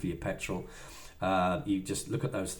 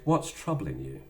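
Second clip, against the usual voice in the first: caring; 5 semitones lower, slower than usual. Shown as a demonstration. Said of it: "you should have said".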